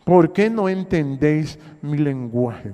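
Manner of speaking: slow, weighty scripture reading; preacher slowing down to drive the verse home; slow emphatic reading. Shown as a demonstration. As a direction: lean on each word of the verse, slowly. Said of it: "Dice el cuarenta y tres".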